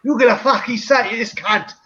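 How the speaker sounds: slow East End gangster English; EastEnders accent. Acted. Host shows the only English he can do, EastEnders accent. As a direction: put on a Guy Ritchie London accent. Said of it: "Fucking Guy Ritchie EastEnders".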